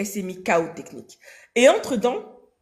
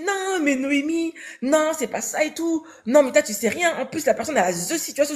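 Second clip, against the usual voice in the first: mocking, higher friend voice; imitation de l'amie; 4 semitones higher than usual. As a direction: mimic her dismissive friend. Amie imitée qui la contredit. (imitation moqueuse de l'amie, voix plus aiguë)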